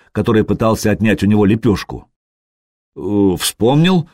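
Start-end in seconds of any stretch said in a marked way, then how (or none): 3.0-4.1 slow fib. Acted. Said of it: "соврал он".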